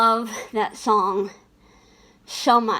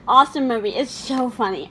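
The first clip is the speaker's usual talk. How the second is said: usual speaking voice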